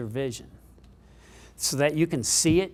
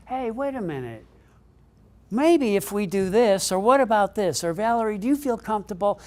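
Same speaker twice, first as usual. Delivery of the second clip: eager brainstorming; 7 semitones higher, 4 dB louder than usual. Retold or imitated. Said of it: "It was like".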